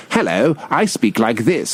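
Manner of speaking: lightly mimicked put-on British accent, slow; measured, hint of a fake British accent; Ewan McGregor. Co-host mocking an actor's put-on accent, lightly imitated British accent. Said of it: "Ewan McGregor keeps showing up with his".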